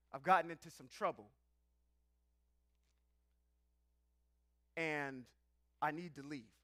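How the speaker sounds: lightly voiced smooth soul-singer croon; mock deep seductive man at the door. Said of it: "deep, dark," soul-singer "voice".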